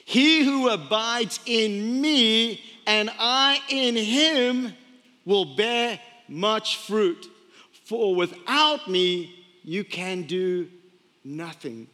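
slow, weighty quoting of Jesus; measured, reverent recitation; slow solemn scripture reading. Acted. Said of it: "where Jesus said".

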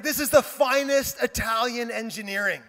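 lightly imitated car-buff pride; geeking out. Friend telling pastor about his Ferrari, geeking out. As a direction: relish each word like a proud car nerd. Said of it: "he's geeking out".

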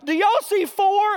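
high, loud king turning to the crowd; the king demanding an answer; mock king questioning the crowd; king asking the crowd. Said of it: "He would have turned to someone in the audience".

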